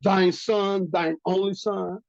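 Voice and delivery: weight on "thine son" and "thine only son"; pointed emphasis. Shown as a demonstration. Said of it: "Can you see the emphasis being put on".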